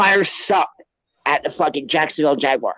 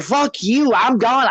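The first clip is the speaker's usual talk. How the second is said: mock-angry, much higher pitched; half-acted furious exit, higher; retold storming off; 7 semitones higher, slower than usual. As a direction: replay quitting in a huff, pitched well up. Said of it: "And I said".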